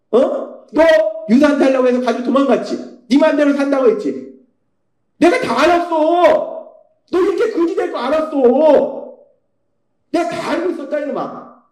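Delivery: a father venting at the son who came home broke; angry scolding father. Acted. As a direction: scold him like a fed-up father. Father scolding his returned son.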